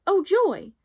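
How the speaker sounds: an exclamation of delight; joyful shout. A narrator's reading. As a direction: burst out in delight. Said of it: "The tailor gave a shout".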